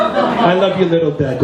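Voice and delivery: chuckling tease; laughing. Retold or imitated. Son teases his father, laughing. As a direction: laugh while teasing him.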